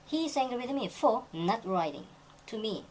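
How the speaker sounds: very slow, word by word for learners; slow example reading. Shown as a demonstration. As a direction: read it out slowly so students follow. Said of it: "teacher reads example sentence". (천천히 또박또박 읽는 예문)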